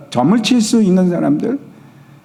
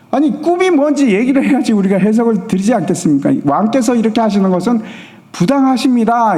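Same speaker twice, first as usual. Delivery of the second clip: higher, protesting advisers in mock alarm; pleading advisers; 5 semitones higher than usual. Court advisers protest the king's unfair demand, pitched high. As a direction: plead your case to the king, hammed up a bit.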